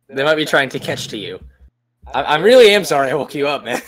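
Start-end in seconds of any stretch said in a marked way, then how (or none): 0.1-1.4 flatly parroting "catch to you" back; mocking repeat. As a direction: echo the slip "catch to you" deadpan. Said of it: "mocking repeat".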